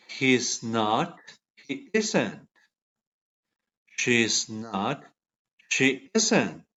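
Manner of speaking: each pair read slowly for repeating; pronunciation drill. Shown as a demonstration. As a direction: model the sound, then pause for the class. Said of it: "¿Practicaron la pronunciación?".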